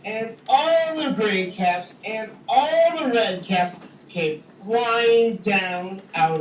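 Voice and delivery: lively read-aloud story voice, big pitch swings; storytelling for kids. A narrator's reading. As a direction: tell it like a picture book to a class. Reads story to children.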